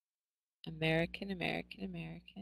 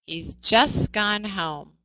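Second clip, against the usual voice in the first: slow example read; much slower than usual. Shown as a demonstration. Teacher rereads example while checking.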